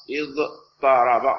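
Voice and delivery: اضطرب drawn out slowly with a heavy emphatic Ṭ after the ḍād. Shown as a demonstration. Teacher giving students the correct form: اضطرب, slow with an emphatic Ṭ. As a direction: stretch اضطرب slowly, making the ṭ thick and emphatic. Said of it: "فسوف تقول".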